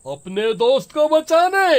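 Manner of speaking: gloating taunt with laughter; mocking possessed laugh. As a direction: laugh at the friend who brought holy men. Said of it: "गुस्से में बोलता है". (भूतनी के साये में राजा की ताना मारती हँसी)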